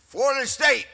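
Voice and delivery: loud announcement of the pick; shouted pick. Retold or imitated. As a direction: belt out the team name to the crowd. Announcing his pick on stage.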